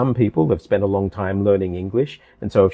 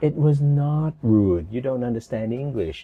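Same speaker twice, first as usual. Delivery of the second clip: put-on condescending, patronizing talking-down tone, as if to a child; 3 semitones higher than usual. A man talks down to a woman whose english is less fluent: patronizing. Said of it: "Listen to his patronizing manner".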